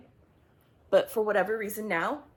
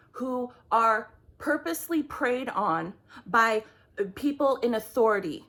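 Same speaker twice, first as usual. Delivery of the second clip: getting angry. Real, not acted. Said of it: "Uh, sorry if I get angry".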